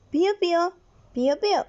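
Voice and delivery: a half-hearted chick peep, close to the speaking voice; mild chick chirps. Shown as a demonstration. Teacher naming the chick's sound, lightly imitated chirp. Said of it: "El sonido del pollito es".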